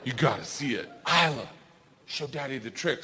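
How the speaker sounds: lightly voiced secretive child. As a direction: tease like a kid keeping a secret. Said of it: "She goes".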